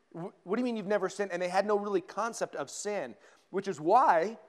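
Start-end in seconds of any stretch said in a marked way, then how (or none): 0.1-1.3 laughing disbelief. Retold or imitated. Retold disbelieving reply in conversation.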